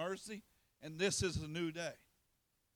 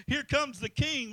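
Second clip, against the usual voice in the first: loud, higher, slow acclaim; crowd shouting; 6 semitones higher, 7 dB louder, slower than usual. Retold or imitated. Crowd greeting Jesus, loud slow cry. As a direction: hail him as he rides in. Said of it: "they were shouting".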